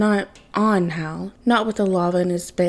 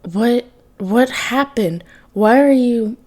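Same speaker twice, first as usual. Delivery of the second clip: slow, faltering, then louder on the question; voice breaking; 3 semitones higher, 4 dB louder, slower than usual. Acted. Hurt father seeing his son changed, voice breaking. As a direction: let the voice crack on the words. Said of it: "Hal's voice broke".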